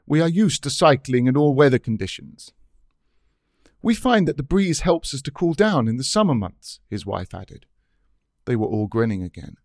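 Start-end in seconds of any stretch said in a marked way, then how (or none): 0.1-2.5 vigorous, emphatic Dutch tourist. Acted. Dutch cyclist explaining himself to the narrator, vigorous. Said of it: "the man said in a vigorous voice". 3.8-6.8 higher-pitched, lilting Dutch woman; Dutch tourist's wife. Acted. Dutch wife adding to her husband's explanation, higher voice.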